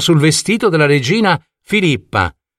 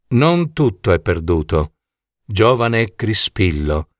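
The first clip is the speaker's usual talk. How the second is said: queen, smiling; 6 semitones lower than usual. Acted. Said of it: "disse la regina con un sorriso".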